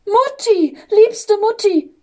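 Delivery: high, ringing cry of joy; joyful calling. A narrator's reading. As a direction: call out lovingly, pitch leaping high. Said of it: "rief der kleine Engel voller Freude".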